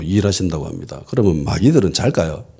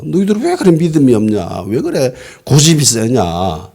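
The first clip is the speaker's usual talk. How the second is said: mild mock rebuke, starting high, slowing at the end; retold scolding; 4 semitones higher than usual. Risen Jesus chides stubborn disciples, in a mildly acted scolding. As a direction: act out telling them off, dragging the last question. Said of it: "꾸짖음입니다".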